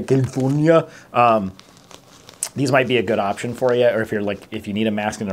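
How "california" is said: put-on CALIFORNIA mangled in the governor's accent, like "Kin-foon-ya"; governor's accented pronunciation. Mask reviewer quoting the governor on California, mock accented impression. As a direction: imitate the governor's accent on CALIFORNIA, first syllables squashed. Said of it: "as the governor would say".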